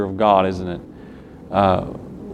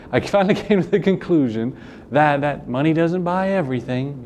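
higher, lightly put-on voice quoting a girl; imitating her with amused, raised pitch; mock retake of quote; 4 semitones higher than usual. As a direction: redo the quote higher, with a laugh. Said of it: "there's my southern accent again, sorry".

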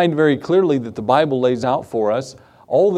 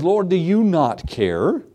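Martha complaining; 4 semitones higher, slower than usual. Retold or imitated. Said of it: "she calls out and says".

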